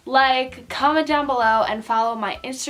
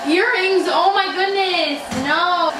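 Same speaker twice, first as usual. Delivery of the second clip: startled alarm; 5 semitones higher, 5 dB louder than usual. Real, not acted. Puppy bites her earrings.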